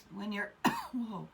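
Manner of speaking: words broken by a cough; talking through a choke; choking. Real, not acted. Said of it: "Sorry, I was choking really bad".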